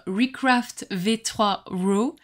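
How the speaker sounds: slow English words in a French accent; clumsy French-accented English; bad English accent. Real, not acted. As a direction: attempt the English name slowly, French accent showing. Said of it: "mon accent anglais pourri".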